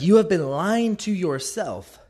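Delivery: slow, pointed correction. Retold or imitated. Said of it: "He's like".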